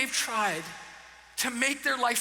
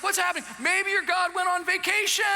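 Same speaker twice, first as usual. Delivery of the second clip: raised, jeering taunt; mocking taunt; 5 semitones higher than usual. Elijah mocking the priests' silent god, jeering. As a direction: tease them about their absent god. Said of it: "he's mocking them".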